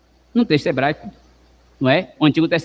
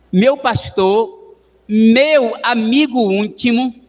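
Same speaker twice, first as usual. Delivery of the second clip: fervent; 2 semitones higher, much slower than usual. Acted. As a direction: savor each title of God. Fervent psalm translation.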